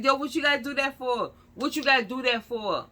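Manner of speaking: high, loud pleading complaint; imitated protest. Officer objects to driver calling her cousin, imitated protest. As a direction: object as if badly put out.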